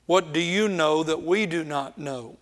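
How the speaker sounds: mild sarcastic challenge. Acted. Eliphaz rebuking his friend Job, sarcastic. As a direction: needle him with a pointed question. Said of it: "You hear the sarcasm".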